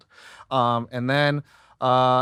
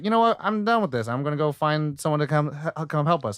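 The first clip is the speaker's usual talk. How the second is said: higher-pitched acted resolve, easing off; fed-up resolve; 3 semitones higher than usual. Retelling Nala setting off for help, mock fed-up resolve.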